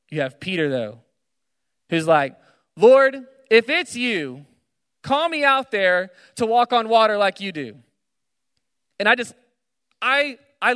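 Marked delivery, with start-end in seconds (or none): 2.8-7.7 higher, louder acted challenge; bold challenge. Peter daring Jesus on the water, bold challenge. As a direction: call out boldly, pitched up.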